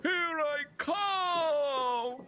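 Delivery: drawn-out call to his wife, half crying; slow calling out. Acted. Husband calling down to his wife, slow cry. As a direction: call out slowly, pleading.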